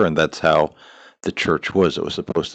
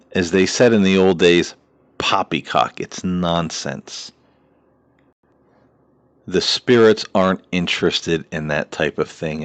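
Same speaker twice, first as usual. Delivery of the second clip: ordinary talk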